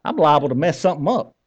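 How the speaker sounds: folksy Southern accent; good Southern accent. Shown as a demonstration. Preacher voicing a common worry, Southern accent. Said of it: "say this in my good Southern accent".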